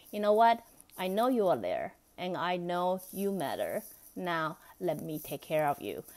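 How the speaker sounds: bright opening, then softening into care; gentle reassurance. Shown as a demonstration. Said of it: "change your face a little bit and say".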